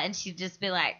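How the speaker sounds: ordinary talk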